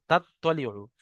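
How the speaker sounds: তাত্তলিউ said whole after spelling it out; blended word. Shown as a demonstration. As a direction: join the sounds into তাত্তলিউ. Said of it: "আইন পেশ উ".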